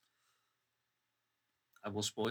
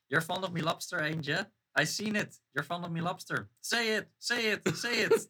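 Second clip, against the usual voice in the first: put-on angry old sailor; 6 semitones higher, 3 dB louder than usual. Quiz host acting the lighthouse keeper's rant for his friend, hammed-up angry sailor. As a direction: ham up a gruff lighthouse keeper pushing for an answer. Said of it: "the character is quite angry".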